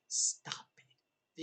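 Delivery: "Stop it" breathed out voiceless, a hushed scold; whispered stop it. Real, not acted. Scolding shipping fans with "Stop it", a whisper. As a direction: whisper "Stop it" like a pleading aside.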